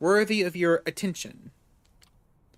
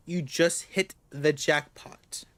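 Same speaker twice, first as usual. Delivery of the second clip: usual speaking voice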